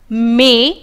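"मे" as a separate syllable; isolated "मे", the middle piece of amazing; syllable sounded out. Shown as a demonstration. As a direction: sound out "मे" on its own, stressing its vowel. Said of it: "अमेजिंग को हम pronounce करते हैं".

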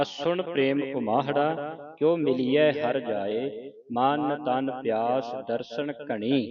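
slow, measured teaching recitation; scripture recitation. Shown as a demonstration. Teacher reading scripture for the congregation, slow recitation. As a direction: recite each word slowly, drawing out the vowels.

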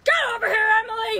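loud call across the room. Acted. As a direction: shout for the child to come. Mother calling child over.

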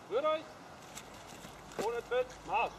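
sharp order, "Marsch" falling hard; barked drill commands. Acted. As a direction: bark "Ohne Tritt, Marsch!" at the troops. Officer calling drill commands.

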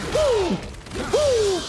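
very high sharp uh cry; pained yelp. Real, not acted. Gamer hit hard by a monster, sharp high yelp. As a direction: yelp as the blow lands.

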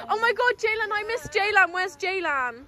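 put-on demonstrating a mild drunk pining; acting clingy drunk. Shown as a demonstration. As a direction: show how the drunk friend misses someone. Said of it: "and then be like".

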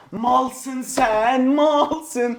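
long-vowelled, deliberate taunting; drawn-out taunt. Real, not acted. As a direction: stretch out "Malsın" and "sen". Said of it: "Biraz daha söyleyeceğim".

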